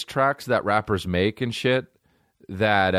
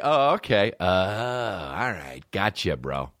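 mock producer; slower than usual. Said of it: "that's like".

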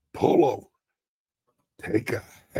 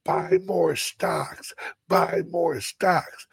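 building, louder sermon cadence; hammed-up pulpit preaching; mock preaching; 4 semitones higher, 3 dB louder than usual. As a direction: preach it like a revival pastor, mostly half-joking. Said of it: "Start preaching".

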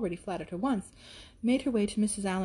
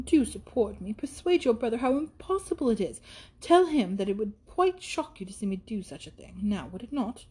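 put-on protesting young lady. Isabella appealing to Catherine against her brother, lively protest.

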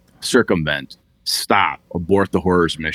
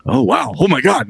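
mock shock; 11 semitones higher than usual. Executive suddenly alarmed.

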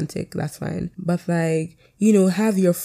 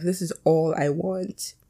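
softer, slow line with a slight crack; 4 dB quieter, slower than usual. Real, not acted. Recalling a vlog of friends in fellowship, voice cracking slightly. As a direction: let the voice catch a little, really. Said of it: "my voice just cracked".

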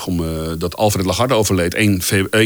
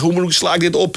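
flustered panic; 10 semitones higher than usual. Retold or imitated. Panicked newbie asking colleagues.

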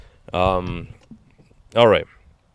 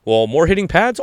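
louder, higher puzzled question; imitating questioner; 6 semitones higher, 5 dB louder than usual. A fan guessing the fighter's secret training, puzzled. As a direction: press him, half baffled. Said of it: "great to hear people".

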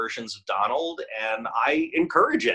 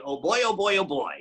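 Donald Duck voice line; 6 semitones higher than usual. Shown as a demonstration.

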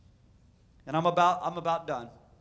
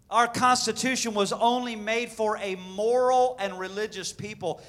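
solemn proclamation; 4 semitones higher, 7 dB louder than usual. Shown as a demonstration. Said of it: "John Adams said".

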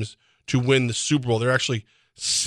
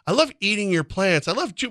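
high squeaky critter voice, much higher; critters outside; 7 semitones higher than usual. Retold or imitated. Bugs outside delighting in eating your plants, high squeaky voice. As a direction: chirp it like a happy garden pest. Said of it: "all the things that are outside going".

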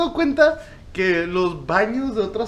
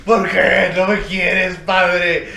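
put-on pleading poop child; 4 dB louder, slower than usual. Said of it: "poop begs its father".

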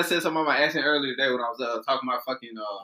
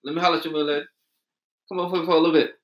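raised-pitch street come-on with Miss Lady slurred; Atlanta catcaller; 5 semitones higher, 5 dB louder than usual. Acted. Man showing how Atlanta guys approach women, coaxing catcall. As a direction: holler like a man flirting on the street. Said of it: "that's exactly how it goes".

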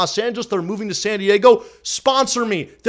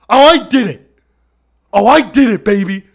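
real excited cheer; 7 dB louder than usual. Real, not acted. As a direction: cheer it out like you just pulled it off. Celebrating his own stunt.

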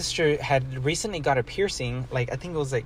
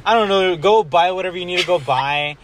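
mock irritated snap; 5 semitones higher, 6 dB louder than usual. Pissed at family after burn.

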